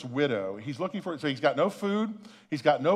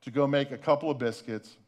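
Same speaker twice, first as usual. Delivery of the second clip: hopeless thought; 4 semitones lower than usual. Retold or imitated. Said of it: "this woman is thinking".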